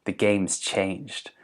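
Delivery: a hint of a menacing villain; menacing Jack. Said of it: "Jack's gonna go".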